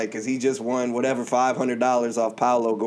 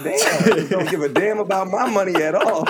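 high, laughing fake indignation; laughing mock outrage; 7 semitones higher, 3 dB louder than usual. Retelling a drunk chat with a player, laughing. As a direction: retell the jab through laughter. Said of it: "I was like".

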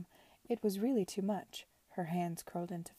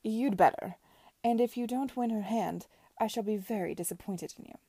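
a lightly voiced imperious aunt, measured; Lady Denham lecturing Edward, haughty; stern aunt; 2 semitones higher, 4 dB louder than usual. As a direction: lay down the law to her nephew.

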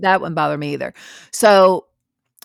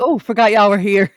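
laughing quote; 3 semitones higher, 4 dB louder than usual. Retold or imitated. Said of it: "You're like".

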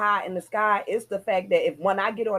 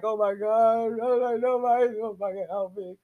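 mock panic; 3 semitones higher than usual. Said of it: "I'm melting down".

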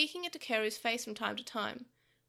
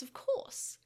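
sly demon voice; 11 semitones higher than usual. Acted. Pico Devimon's sly reply.

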